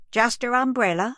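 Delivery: high, startled rising question; surprised question. A narrator's reading. Journalist asking the grieving mother, startled. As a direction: ask it in disbelief.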